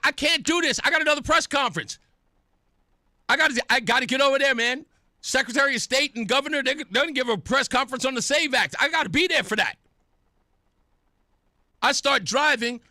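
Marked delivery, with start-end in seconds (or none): 0.1-9.8 retold impatience. Retells his impatience at waiting.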